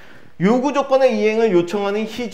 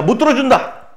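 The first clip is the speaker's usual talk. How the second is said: higher-pitched mock refusal; emphatic retold refusal; acted refusal; 7 semitones higher than usual. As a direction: turn down the demand, playacting. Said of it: "거절하는 장면이 나와 있어".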